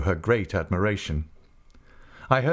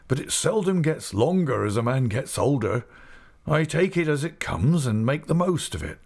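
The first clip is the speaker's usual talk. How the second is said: put-on old man delighted by a sudden memory; old Mister Omer; 4 semitones higher than usual. Old shopkeeper recalling a visitor's mother, lightly voiced old man, higher.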